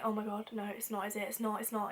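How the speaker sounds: hushed, worried self-talk; inner panic. Retold or imitated. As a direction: mutter it softly to yourself in dread. Retelling silent panicked inner thought.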